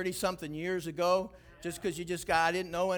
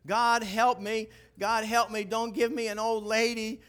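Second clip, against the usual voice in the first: desperate prayer; 5 semitones higher, 4 dB louder than usual. Retold or imitated. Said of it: "I just said".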